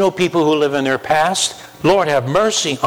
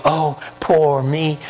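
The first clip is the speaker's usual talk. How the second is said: mock whining; 2 semitones higher, slower than usual. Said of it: "this whining".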